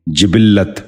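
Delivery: جبلت said "jibil-lat", with short i in the first two syllables; short i twice, doubled l in جبلت; correct pronunciation. Shown as a demonstration. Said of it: "آپ بھی غور سے سنیے".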